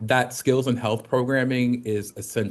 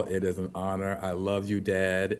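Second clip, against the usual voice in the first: emotional; 4 semitones lower, 7 dB quieter than usual. Real, not acted. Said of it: "without getting too emotional".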